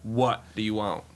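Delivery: low, slow put-on owner; weary, impatient team owner; Jerry Jones impression. Team owner interrupted by the commissioner, low impatient impression. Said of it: "the Jerry Jones wasn't bad".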